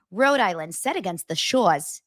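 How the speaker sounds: dropped-R Rhode Island read; attempted Rhode Island accent. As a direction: read it in a shaky-attempt New England accent. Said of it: "Is that how they talk about it in Rhode Island".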